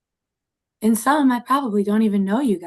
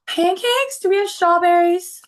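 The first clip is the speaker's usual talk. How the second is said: high, eager question, rising sharply; excited; 10 semitones higher than usual. Acted. Dahlia hearing pancakes are on offer, excited. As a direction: perk right up with delight.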